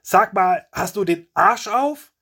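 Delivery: high, loud, indignant yell; loud outburst, slowing on the insult; outraged bellow. A narrator's reading. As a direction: bellow it in disbelief. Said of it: "er brüllt".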